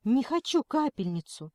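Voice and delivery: scared protest; frightened. Acted. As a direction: pull back in fright. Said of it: "испугалась Алена".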